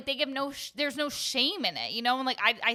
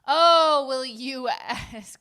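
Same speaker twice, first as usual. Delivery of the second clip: realizing; 4 semitones higher, 11 dB louder, much slower than usual. Real, not acted. Sudden realization.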